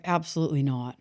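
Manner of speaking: mock indignant refusal, rising on "crazy"; arguing with God. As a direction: push back as if God asked something absurd. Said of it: "I was arguing".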